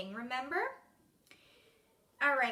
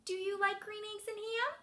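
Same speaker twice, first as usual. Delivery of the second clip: higher-pitched, cheerful questioning voice; happy character; 4 semitones higher than usual. Shown as a demonstration. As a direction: ask it happily, lifting at the end. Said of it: "he looks happy".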